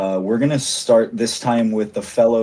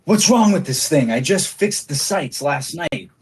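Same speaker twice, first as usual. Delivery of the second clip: frustrated gunman; 5 semitones higher than usual. Acted. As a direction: grumble at a jammed rifle. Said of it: "He says".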